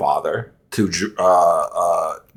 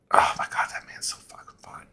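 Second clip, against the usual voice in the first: a hushed breathy whisper to yourself; real whispered swooning aside; 11 dB quieter, faster than usual. Real, not acted. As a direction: whisper it like a guilty confession. Aside about an attractive actor.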